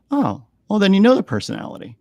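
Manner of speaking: a sudden oh of recognition, quoted; surprised client. Retold or imitated. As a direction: voice jumps high, eager and bright. Client reacts, recognizing Boston.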